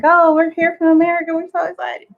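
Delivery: high, eager arrival announcement; excited greeting. Retold or imitated. Traveler telling customs officer where they're from, excited. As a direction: gush it, high-pitched and quick. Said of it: "'cause I'm always excited".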